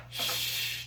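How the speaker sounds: soft unvoiced shush. Shown as a demonstration. Tarot reader shushing viewers to stay quiet. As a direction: hush the listener with a breathy shh. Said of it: "heavy emphasis on staying quiet".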